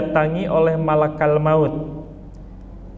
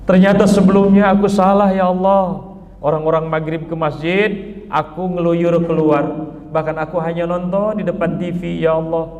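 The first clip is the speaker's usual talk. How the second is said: regretful plea. Acted. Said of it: "Lalu dia ngomong".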